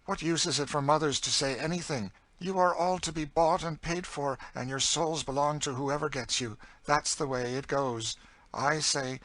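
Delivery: forceful, embittered story voice; bitter older captive character. Acted. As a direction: argue bitterly, driving each point. Cassie's bitter outburst.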